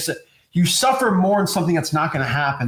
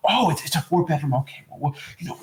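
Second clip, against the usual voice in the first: fake salesy voice; 3 dB quieter than usual.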